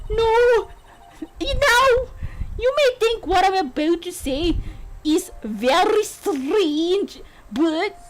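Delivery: attempted Scottish accent, dramatically stretched. Bride prefaces a strange confession, in an attempted Scottish accent. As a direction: draw it out in a makeshift Scottish lilt. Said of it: "could do a Scottish accent".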